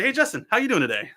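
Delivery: upbeat greeting. Real, not acted. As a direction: greet him like a host. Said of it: "catch my breath and say".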